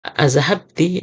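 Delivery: azhabti spoken slowly and deliberately; slow down on azhabti to correct it; slow correction. Shown as a demonstration. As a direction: azhabti read slowly after a slip. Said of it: "eh, azhabat".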